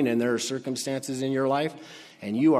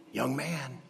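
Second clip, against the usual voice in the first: quiet, close, gentle calling; soft call; 6 dB quieter than usual. Acted. Jesus quietly telling the dead man to sit up, soft. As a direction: murmur it to him gently.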